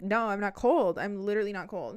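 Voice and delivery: loud, emphatic mock protest; insistent denial. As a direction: insist on it, punching the first denial. Insists to ex she isn't cold.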